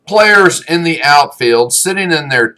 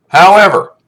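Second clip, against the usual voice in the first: stern shout; 8 semitones higher, 7 dB louder than usual. Retold or imitated. Coach laying down law.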